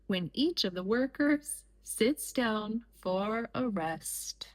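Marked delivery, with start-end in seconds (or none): 3.7-4.5 whisper. A narrator's reading. Narrator hushes the word for a child listener, whispering. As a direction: breathe the last word out as a soft whisper. Workers sit down for a rest.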